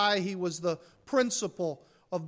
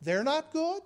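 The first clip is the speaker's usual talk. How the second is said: mock disbelief; 8 semitones higher than usual. Shown as a demonstration.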